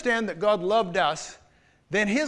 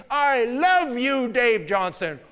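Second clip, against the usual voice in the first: mock shout; 3 semitones higher, 5 dB louder, much slower than usual. Upset boss retells her public declaration as a slow mock shout. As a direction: fling it at him like she did. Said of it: "she shouts in my face".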